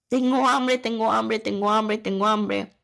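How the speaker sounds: mock distressed wail, fading a little; hungry pleading. Retelling her crying to her husband, loud tengo hambre. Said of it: "me quedé llorando y yo decía".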